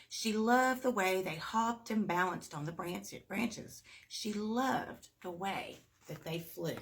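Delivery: lively read-aloud with big lifts; storybook reading. Acted. Reader sharing Zoe's story with kids, lively. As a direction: read it to little ones, painting the scene.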